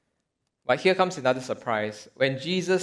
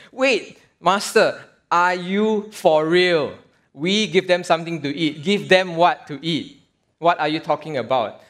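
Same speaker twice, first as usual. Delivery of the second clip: can't believe what they just heard; shocked disbelief. Retold or imitated. Disciples' shocked reaction acted out.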